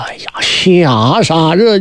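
slow, breathless terrified whisper; a hushed gasp of fear; frightened whisper. Acted. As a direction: whisper it, scared out of his wits. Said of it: "把他吓坏了".

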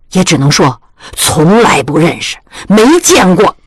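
a hint of a stern old aunt laying down the law; lightly voiced stern old lady. Old aunt sternly orders her niece. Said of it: "王老太太大喝一声".

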